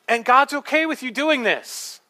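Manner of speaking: high, slow, loud mock pronouncement; self-proclaimed prophetess. Preacher acting what the prophetess said, mock proclamation. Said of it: "That's what she said".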